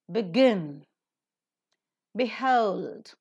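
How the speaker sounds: each word from "below" to "because" apart, second syllable drawn out; stress on root. Shown as a demonstration. Teacher modelling word list for students, root stressed after weak "be". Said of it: "then also the root word is stressed".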